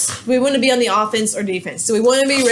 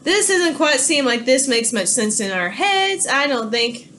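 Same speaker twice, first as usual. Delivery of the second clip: slow, drawn-out doubt; suspicious Napoleon; slower than usual. Retold or imitated. Napoleon eyes Madison's offer, slow and suspicious. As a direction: let each word hang in suspicion. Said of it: "Napoleon says".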